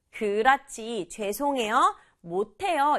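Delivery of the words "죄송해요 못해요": 죄송해요 and 못해요 each given its own emphasis; stress on both words. Shown as a demonstration. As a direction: lean on 죄송해요, then on 못해요. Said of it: "이렇게 두 단어를 강조하면".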